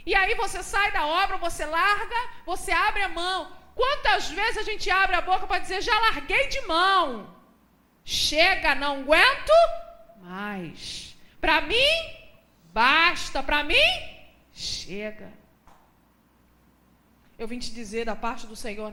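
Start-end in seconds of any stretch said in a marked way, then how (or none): 5.8-15.3 loud, exasperated quitting cry; fed-up outburst. Retold or imitated. Preacher voicing a believer who quits the fight. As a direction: shout that you've had enough. Quoting someone giving up.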